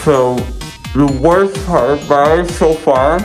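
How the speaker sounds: numb jaw, gauze in mouth; muffled. Real, not acted. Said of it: "this is the way I have to speak now".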